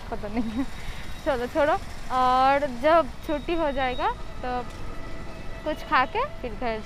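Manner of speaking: muffled by cloth over mouth; speaking behind fabric mask; through a face mask. Real, not acted. Seen 5: Checked cloth mask covers mouth and nose throughout selfie speech.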